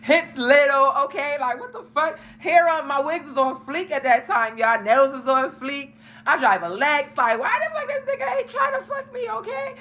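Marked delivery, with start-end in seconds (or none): 0.0-2.2 sassy disbelief. Retold or imitated. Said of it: "I was like". 7.2-9.7 much higher, squeaky indignant rant; demanding why the guy never made a move, high-pitched; squealing outrage. Retold or imitated. Ranting to viewers about the man ignoring her, squeaky outrage.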